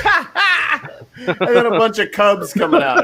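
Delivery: laughing. Real, not acted. Laughing while joking about ark.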